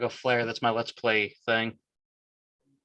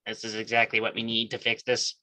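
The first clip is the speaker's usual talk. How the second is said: otherworldly alien voice. Acted. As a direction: speak like a strange alien. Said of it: "That was a good alien voice right there".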